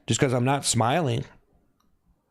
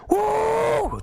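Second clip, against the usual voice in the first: cheering woo. Real, not acted. Streamer thanking viewers for gifts, high whooping shout. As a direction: whoop for the gift.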